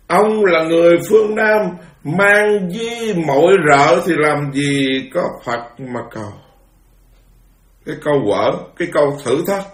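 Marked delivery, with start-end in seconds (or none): 0.1-6.3 higher-pitched mock rebuke, dropping away at the end; retold scolding. Fifth Patriarch challenges Huệ Năng for seeking Buddhahood, retold scolding. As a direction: imitate a master scolding a newcomer. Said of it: "ngũ tổ Hoàng Nhẫn đó la lên, quở lên".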